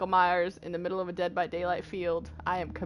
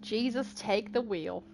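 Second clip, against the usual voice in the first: put-on hillbilly southern accent; 2 semitones lower, 6 dB quieter than usual. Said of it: "I can do my southern accent".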